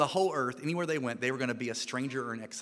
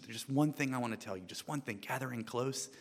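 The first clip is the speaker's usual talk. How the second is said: hushed warning; 2 semitones lower, 7 dB quieter than usual. Retold or imitated. South African lady hushing her team before the trip. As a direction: lean in and keep it quiet. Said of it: "leaned in and whispered".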